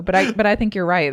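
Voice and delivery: ordinary talk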